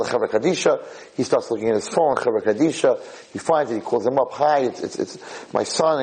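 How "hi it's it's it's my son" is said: halting, stammering imitation of a distraught father; can't get words out. Father phones the burial society about his son, stammering. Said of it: "he can't even get it out".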